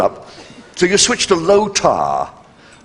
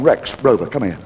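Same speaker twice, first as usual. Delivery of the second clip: boastful dog; 7 semitones lower than usual. Pretend. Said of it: "a dog down on the corner saying".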